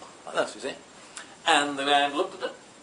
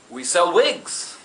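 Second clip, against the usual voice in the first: shopkeeper voice; 2 semitones higher, much slower than usual. Acted.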